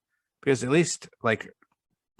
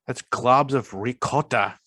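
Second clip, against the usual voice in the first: light Italian accent; slower than usual. Shown as a demonstration. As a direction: say it like an Italian chef. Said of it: "Trying to say that with the best Italian accent".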